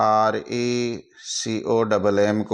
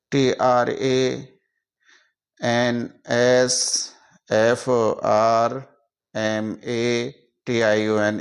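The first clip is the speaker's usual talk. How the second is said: slow spelling; much slower than usual. Shown as a demonstration. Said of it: "इसको हम टुकड़ों में बांटते हैं".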